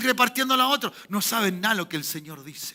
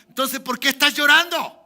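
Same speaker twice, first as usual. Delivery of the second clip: raised, higher challenging question; acted rebuke; 5 semitones higher, 6 dB louder than usual. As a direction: demand an answer, louder and higher. Voz de Dios que reprende el llanto. (reproche en voz alta)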